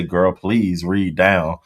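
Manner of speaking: slow, drawn-out quote; quoting him. Retold or imitated. Retelling the man's phrase to chat slowly. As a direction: stretch "Girl, please read down." with a long "down". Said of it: "I heard him say".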